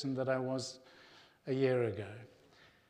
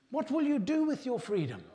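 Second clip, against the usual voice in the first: high, loud rallying cry; William Wallace; 10 semitones higher, 5 dB louder than usual. Acted. Preacher repeating the Braveheart challenge to his congregation, high loud battle cry. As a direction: call out the challenge like a film hero. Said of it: "William Wallace Braveheart film, when he says".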